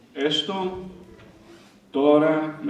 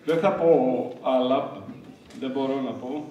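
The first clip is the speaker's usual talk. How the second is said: really moved, halting, struggling to go on; overcome with emotion. Real, not acted. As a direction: break off, too moved to continue. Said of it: "Είμαι συγκινημένος". (συγκινημένος, με δυσκολία να συνεχίσει)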